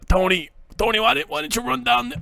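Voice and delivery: high-pitched mock Italian attempt; bad Italian accent. Scolding Tony, badly faked Italian accent. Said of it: "I don't have a good fucking Italian".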